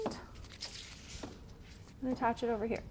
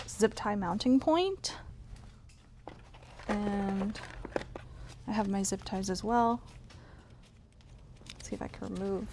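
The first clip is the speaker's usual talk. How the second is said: lying under a car; 4 dB quieter than usual. Real, not acted. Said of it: "now that I'm under the car".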